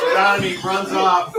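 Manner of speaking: said through laughter; laughing. Real, not acted. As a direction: narrate while still laughing. Laughing while narrating.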